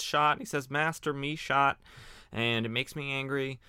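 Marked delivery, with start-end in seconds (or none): 0.7-1.8 a touch higher and louder, slower pidgin lament; lightly voiced sidekick crying out he's hit; Tong's stilted English. Tong telling his master he's been shot, mild mock cry. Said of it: "to speak in a funny voice".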